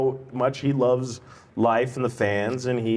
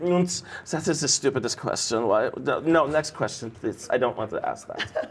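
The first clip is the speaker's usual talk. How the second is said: Udo; 2 semitones lower than usual. Retold or imitated. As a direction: refuse like a jaded interviewee. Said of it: "I was doing Udo the other day".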